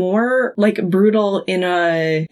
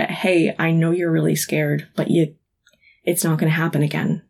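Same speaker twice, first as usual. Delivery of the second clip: soothing; 3 semitones lower, 4 dB quieter than usual. Pretend. Suggested soothing to ghost.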